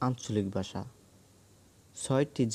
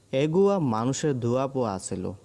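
Chittagong dialect; 3 semitones higher, 4 dB louder than usual. Shown as a demonstration. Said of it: "চট্টগ্রামের আঞ্চলিক ভাষা হলো".

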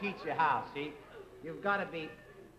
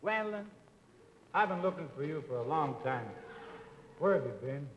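smooth line; 5 semitones lower, 5 dB quieter than usual. Shown as a demonstration. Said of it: "you say".

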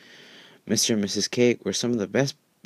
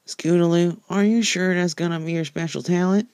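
much higher, louder little filly teasing her friend; young filly voice; 10 semitones higher, 3 dB louder than usual. Acted. Apple Bloom teases Scootaloo after the crash: high filly voice. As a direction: play a small filly calling out to her friend.

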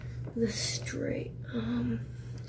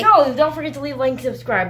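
YouTuber outro; 7 semitones higher, 6 dB louder, faster than usual. Pretend. Mock outro.

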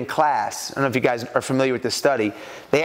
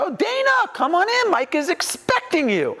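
much higher, calling out a bright welcome; excited greeting. Retold or imitated. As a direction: sing out the hello like a delighted receptionist. Receptionist greets at buzzer.

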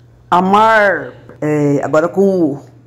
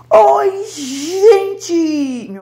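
Bahian greeting; 10 semitones higher than usual. Retold or imitated. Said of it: "Ele queria dizer assim".

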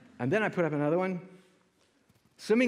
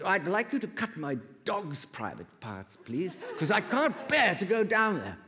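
put-on posh old lady; 5 semitones higher than usual. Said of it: "you could hear from her voice, she was very smart, la-di-da".

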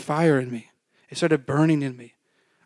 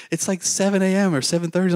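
higher-pitched imitation of an incredulous dad; disbelieving dad; 5 semitones higher than usual. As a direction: question it like a baffled father. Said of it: "my dad couldn't believe it".

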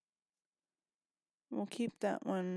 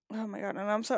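sniffling; faster than usual. Real, not acted. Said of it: "I apologize for the sniffling".

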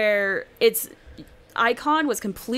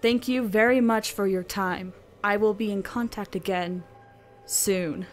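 spooky voice; 2 semitones lower than usual. Pretend. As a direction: read it like a creepy stranger. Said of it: "Do it in a spooky".

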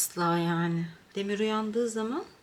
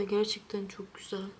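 whispering; 5 dB quieter than usual. Real, not acted. Whispered praise.

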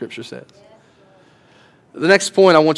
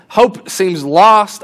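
slow, heavy; 2 semitones higher, much slower than usual. Acted. Martha's grief.

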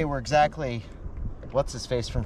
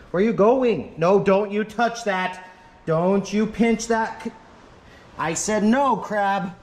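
raised scolding voice; shouting match; 5 semitones higher, slower than usual. Real, not acted. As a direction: scold it like a naughty pet. Scolding crab in living room.

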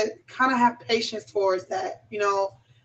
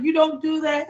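firm no; 5 semitones higher than usual. Retold or imitated. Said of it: "I was like".

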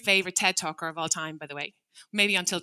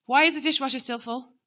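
sharp, higher, louder accusation; accusing demand; 4 semitones higher, 4 dB louder than usual. Shown as a demonstration. Parent scolding family about the full dishwasher, accusing. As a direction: snap the blaming question. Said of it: "instead of saying".

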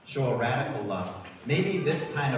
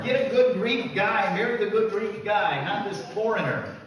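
Greek dad; 10 semitones higher, 6 dB louder than usual. Retold or imitated. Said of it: "what is the dad concerned about".

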